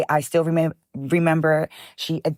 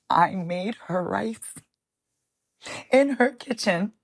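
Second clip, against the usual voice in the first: hushed; 4 semitones higher, slower than usual. Real, not acted. Tearful memory of last meal.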